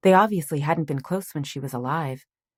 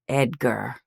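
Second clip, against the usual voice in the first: hoarse; 3 semitones lower than usual. Acted. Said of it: "his voice hoarse".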